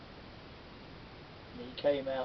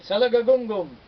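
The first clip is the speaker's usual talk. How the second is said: loud, high excited chant; overexcited spider chanting; excited spell; 8 semitones higher, 11 dB louder than usual. Acted. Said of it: "so excited he got a bit confused".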